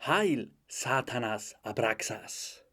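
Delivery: slow, solemn chanting; mock incantation. Young Satanist invoking Satanas, slow incantation. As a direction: intone it word by word like a cult ritual.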